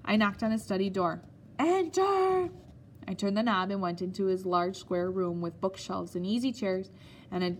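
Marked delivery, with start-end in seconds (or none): 1.6-2.5 a sharp, much higher and louder "Enter!"; stern command. Acted. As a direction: bark the single word from behind the door. Headmaster summons boy to study.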